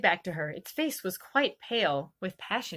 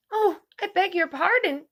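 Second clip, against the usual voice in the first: quick, raised, flustered apology; a hurried, higher, louder oh; hasty apology; 9 semitones higher, 5 dB louder than usual. A narrator's reading. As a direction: blurt out sorry in a rush. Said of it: "cried Alice hastily".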